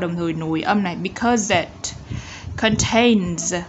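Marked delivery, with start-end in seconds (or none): 2.6-3.5 "contains" with a buzzed final Z; Z ending sound. Shown as a demonstration. Teacher modelling ending sounds, buzzed final Z. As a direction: let "contains" end on a voiced Z. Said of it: "Z ending sound".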